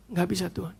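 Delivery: soft imitation of a tearful plea; retold tearful plea. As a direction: give up to God in a hushed retold lament. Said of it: "Dia nangis". (tiruan ratapan lirih)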